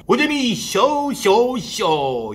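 slow, drawn-out echoing show name; announcer echo. Acted. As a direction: stretch each word like a fading echo.

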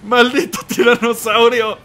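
loud, high cry that clips the mic; yelling at the tyrannosaurus; real yell. Real, not acted. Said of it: "Ay, saturé el audio".

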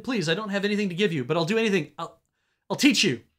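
high, loud frantic offer; desperate bargaining. Acted. Caught thief begging to teach lockpicking, frantic pleading. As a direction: bargain for your life, pleading.

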